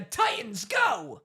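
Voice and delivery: cartoon hero's battle cry impression; Robin. Team leader launching the Titans, heroic cartoon call. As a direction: call the team into action, rising on the last word. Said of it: "a Robin from Teen Titans".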